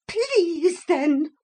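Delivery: high loud grudging snap; burst of temper. A narrator's reading. Motor lady to the hippogriff, grudging temper. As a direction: spit the word out. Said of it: "in a burst of temper".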